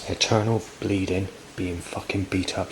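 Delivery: a touch of retold anger; in temper. Quoting the angry voice outside, mild anger. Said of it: "said in temper outside".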